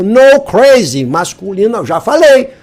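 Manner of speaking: exasperated insistence. Real, not acted. Teacher scolding repeated crase error.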